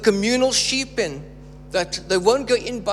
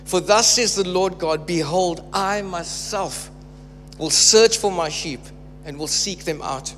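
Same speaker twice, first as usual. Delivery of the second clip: measured, weighty scripture reading with slowed phrases. Acted. Preacher reading Ezekiel aloud to church, measured proclamation. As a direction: proclaim God's words to the congregation.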